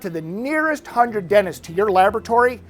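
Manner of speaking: quick, upbeat sales pitch voice; infomercial. Pretend. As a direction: pitch it like a TV ad host. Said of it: "I know I sound like an infomercial now".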